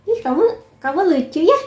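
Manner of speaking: high, cute gushing imitation; smitten cooing. Mimicking an admirer charmed by your smile, high and cute. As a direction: coo it like someone suddenly charmed. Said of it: "dia tuh kayak".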